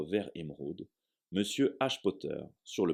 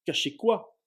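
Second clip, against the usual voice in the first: much higher, quick urgent question; hasty; 12 semitones higher, 6 dB louder, slower than usual. Acted. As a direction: blurt it out fast. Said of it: "dit précipitamment Harry".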